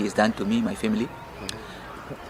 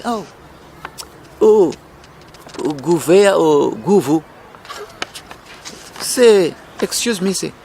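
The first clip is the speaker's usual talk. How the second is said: mock pleading. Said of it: "You don't talk like that".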